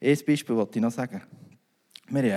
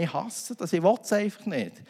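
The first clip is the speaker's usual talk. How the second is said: retold insistence; 4 semitones higher than usual. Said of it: "ich habe gesagt".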